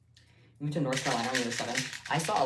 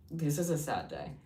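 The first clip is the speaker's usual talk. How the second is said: mock tragic; 10 semitones higher, 5 dB louder, slower than usual.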